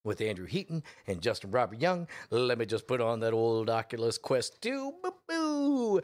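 lightly playing his past self; narrating as himself. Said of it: "Now we cut to his perspective".

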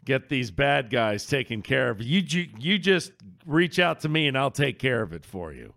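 lightly voiced friendly game character; a hint of a helpful sidekick. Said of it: "I could play one of those characters".

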